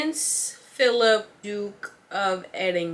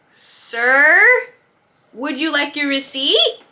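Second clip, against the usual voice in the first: higher, louder sugary politeness; fake customer-service politeness; 6 semitones higher, 9 dB louder, slower than usual. Cashier wanting the rude customer gone, forced sweet politeness. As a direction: smile through it, sweet but done.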